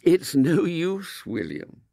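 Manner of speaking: slow, calm, firm mother; a mother closing the matter kindly; gentle firmness. Acted. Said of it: "his mother's gentle firmness".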